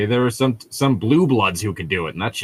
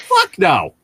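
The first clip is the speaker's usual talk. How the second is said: higher, louder flat refusal; 6 semitones higher, 4 dB louder than usual. Acted. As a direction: shout it down. Reading character's refusal.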